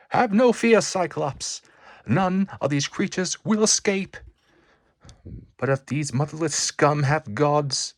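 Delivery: loud, high defiant vow; rally the team mid-fight; bold battle vow. Acted. Hero reassuring Cyclops with a loud battle vow.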